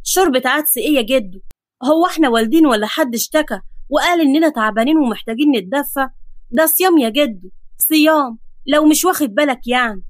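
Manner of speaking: mildly indignant grandson; understated vexed complaint; exasperated. Acted. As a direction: protest the menu with rising emphasis. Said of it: "بص له بغيظ وقال".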